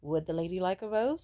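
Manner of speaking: understated imitation of a smirking date; smirking question. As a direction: ask it with a slight smirk. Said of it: "with a smirk and he was like".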